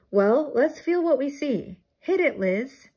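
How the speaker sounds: high eager shout. A narrator's reading. Teacher ordering Liz to start engine, shouting. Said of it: "Miss Frizzle shouted".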